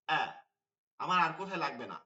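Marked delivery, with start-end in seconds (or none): 0.1-0.2 "আ" started at the top of the throat; short "আ" released from the throat; hamza from the throat. Shown as a demonstration. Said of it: "হামজা হয় এইখান থেকে". (কণ্ঠনালির শুরু থেকে ছোট "আ")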